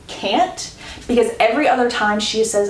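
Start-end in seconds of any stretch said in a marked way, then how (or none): 0.1-0.7 higher, softly questioning echo of "can't". Retold or imitated. Man seizing on her one word, questioning. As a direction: repeat "can't" as a raised question. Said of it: "focuses in on that word".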